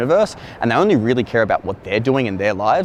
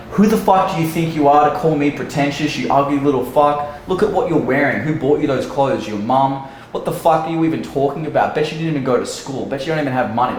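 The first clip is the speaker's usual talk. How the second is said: imitating an angry woman's tirade, pitched up a little; berating; 3 semitones higher than usual. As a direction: rattle off insults as the offended woman. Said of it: "berated me".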